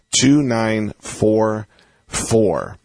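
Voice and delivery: "two nine four four" drawn out, with a pause before the last "four"; slow, deliberate digits. Real, not acted. Host repeating the call-in number for listeners, slow and deliberate.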